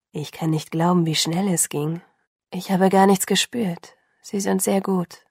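thoughtful. Acted. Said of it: "sagte er nachdenklich".

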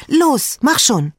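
drängender, hoher Zuruf; Schreien. A narrator's reading. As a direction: ungeduldig antreiben, hoch gerufen. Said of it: "schrie Antonella". (drängend schreien)

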